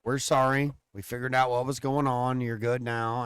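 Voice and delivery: softly voiced nurse saying sorry; soft nurse quote. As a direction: hush it like an apologetic nurse. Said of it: "she's like".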